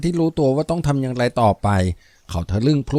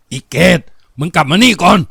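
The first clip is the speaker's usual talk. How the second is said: loud, higher shout of love and rage; anguished call; 5 semitones higher, 6 dB louder than usual. A narrator's reading. Father shouts after his daughter to come back, anguished and loud. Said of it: "แกร้องออกมาด้วยความรักและคนแค้น".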